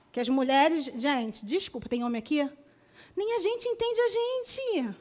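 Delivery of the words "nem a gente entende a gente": laughing through the line; chuckling at her own joke. Real, not acted. Preacher laughs while joking with the congregation about women.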